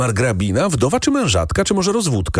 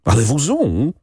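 shrill cry; 6 semitones higher than usual. Acted. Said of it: "krzyknęła pani Beata piskliwie".

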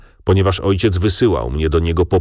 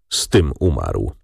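ordinary delivery, nothing marked

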